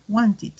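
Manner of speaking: "wanted" with a soft, voiced "id" ending; "wanted" con final suave. Shown as a demonstration. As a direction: close "wanted" gently so the throat keeps buzzing. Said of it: "un sonido un poquito más suave".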